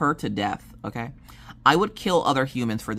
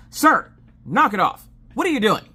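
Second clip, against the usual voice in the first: higher, louder mock scold; 8 semitones higher, 5 dB louder than usual. Wife scolding her husband's joke, playful and louder. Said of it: "And I'm like".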